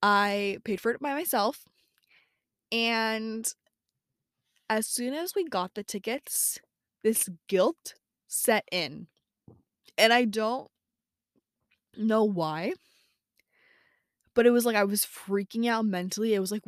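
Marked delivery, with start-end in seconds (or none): 4.7-12.7 drawn-out words with long pauses; slow, dramatic telling. Real, not acted. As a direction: tell it haltingly, letting the drama hang. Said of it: "speaking so slowly, like, it's a very dramatic thing".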